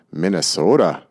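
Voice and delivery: a lightly played Minnesota accent on "Minnesota"; stereotypical Fargo accent. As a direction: say "Minnesota" like a Fargo movie local. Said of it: "with my stereotypical Fargo accent".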